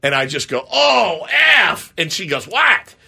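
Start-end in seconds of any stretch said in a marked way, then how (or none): 0.7-1.9 high, loud mock outburst; re-enacted yelp of dismay; retold dismayed cry. Retelling his cry at spilt tuna. 2.5-3.0 high, loud one-word mock shout; imitating someone yelling from another room; imitated startled callback. Acting wife calling back, startled.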